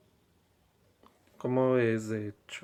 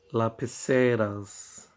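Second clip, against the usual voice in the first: slow teaching demo. Shown as a demonstration. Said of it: "teacher models the plural slowly".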